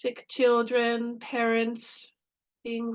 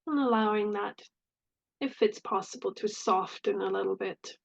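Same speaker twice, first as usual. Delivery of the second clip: calm meditation voice with long pauses; unhurried phrases with space between them; guided meditation. Real, not acted. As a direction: lead gently into the breath, leaving long silences.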